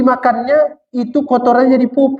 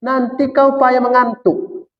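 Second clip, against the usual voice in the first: slow, raised and solemn as God speaking; God declaring calmly to man, slightly higher; 4 semitones higher, slower than usual. Acted. Preacher voicing God to his listeners, slow and solemn. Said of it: "kata Tuhan".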